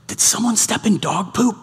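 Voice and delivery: soft, under-the-breath imitation; hushed retold question. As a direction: imitate a discreet question in church, kept soft. Lip-read remark passed in church.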